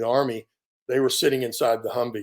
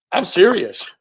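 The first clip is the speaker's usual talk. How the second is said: mock rough medic; 6 semitones higher, 6 dB louder, slower than usual. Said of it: "he gets a little rough with me".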